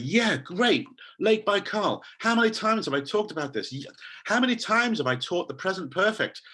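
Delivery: hammed-up eager teacher; performed enthusiasm. Shown as a demonstration. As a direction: perform it like it's brand new, pitch up. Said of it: "So you're like a performer".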